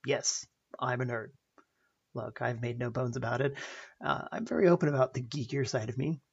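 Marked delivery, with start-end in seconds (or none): 0.0-1.3 slow, proud admission; slowly and proudly owning being a nerd. Retold or imitated. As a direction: own it with pride, unhurried. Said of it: "answered very proudly".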